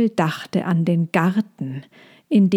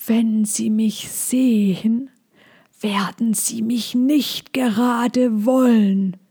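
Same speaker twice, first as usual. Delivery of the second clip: slow hushed dragon voice; 4 semitones higher, slower than usual. Acted. Big dragon worries quietly. (leise, langsame Drachenstimme)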